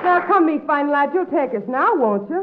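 stage-Irish brogue, coaxing; put-on Irish accent. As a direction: sweet-talk him in an Irish lilt. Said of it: "picked up that accent".

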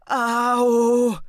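loud pained "au!" yelp; woman in labour cries out in pain; cry of pain. Acted. Contraction hits again.

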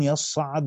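يصعد as yaṣṣaʿʿadu, sad and ain both doubled. Shown as a demonstration. Teacher giving the other readers' form, doubled letters. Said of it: "بتشديد الصاد والعين".

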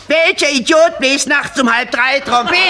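a comic yell without full volume; mock indignant yell. Irate neighbour at the window to the night trumpeter, mock indignant yell. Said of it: "das Fenster aufmachen und schreien".

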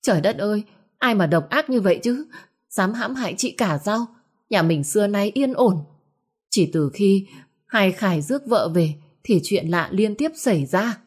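panicked outcry. Acted. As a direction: cry out in fright and accusation. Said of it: "bà ba hoảng hốt kêu lên".

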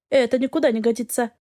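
plain reading voice

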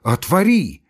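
doctor shouts at the door, shaking; trembling shout. Acted. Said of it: "крикнул Андрей Ефимыч, дрожа всем телом".

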